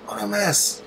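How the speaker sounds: high despairing wail; high exasperated lament. Real, not acted. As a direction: cry out at the sky in dismay, way up. Lamenting the sky.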